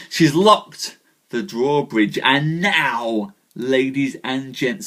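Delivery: measured storyteller reading a knightly tale; story narration. Acted. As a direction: tell the legend to the live audience. Live reading of Arthurian tale.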